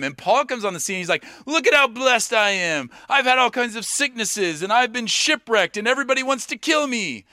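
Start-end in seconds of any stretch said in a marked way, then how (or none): 1.5-7.2 higher, proudly listing misfortunes; mock boast. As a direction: brag about hardship as if it were blessing. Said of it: "he actually boasts in his weakness".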